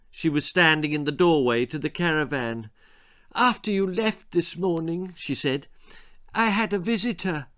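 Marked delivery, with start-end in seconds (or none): 3.3-7.5 a lightly raised, bubbling mother's voice; eager, just bursting to tell; mother bubbling over with news. A narrator's reading. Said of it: "Her voice was bubbling".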